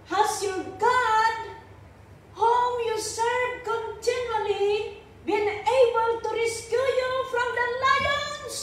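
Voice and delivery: a touch of anguish, pitch lifting, half-sung; king calling into the den, mildly anguished. Acted. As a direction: read it as a desperate plea. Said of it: "in an anguished voice".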